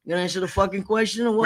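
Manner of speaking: fast, pushy mock demand; mock interrogation. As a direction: hurry them like a cop grilling a suspect. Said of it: "you feel like you're gonna get interrogated".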